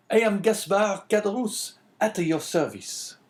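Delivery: high-pitched host voice; obliging innkeeper. A narrator's reading. Host introducing himself to the priest, obliging innkeeper. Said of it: "answered the host".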